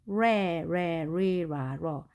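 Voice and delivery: 레, 레, 리, 라, 러 as English re, re, ri, ra, ro in one run; curled-tongue R. Shown as a demonstration. Teacher reviewing R for learners, 레, 레, 리, 라, 러 with curled tongue. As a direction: chant 레, 레, 리, 라, 러 with the tongue off the palate. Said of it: "이렇게 발음이 된다는 것을".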